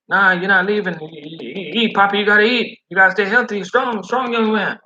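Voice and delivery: high, pushy motherly insistence; won't take no, feed him up; insisting cafeteria lady. Retold or imitated. Spanish lady ordering the driver to stay and eat, high and insistent. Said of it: "lady insists he eat".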